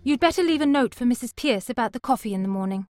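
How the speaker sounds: firm parting order; a cool, decided last word; decisive. A narrator's reading. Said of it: "said Eliza decisively".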